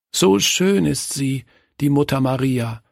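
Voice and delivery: put-on admiring child. A narrator's reading. Kurt gazes at the carved mother and child, admiring.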